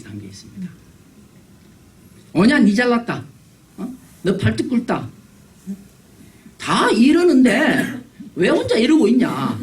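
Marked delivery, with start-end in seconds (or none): 2.3-9.6 high-pitched, sarcastic jeer; acted crowd sneering at a misfit; mock scolding. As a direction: taunt the odd one out, pitch jumping up. Mocks a nonconformist as the crowd.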